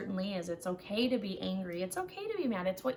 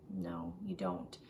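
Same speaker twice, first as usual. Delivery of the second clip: firm answer; 5 dB quieter, slower than usual. Real, not acted. Answers own question firmly.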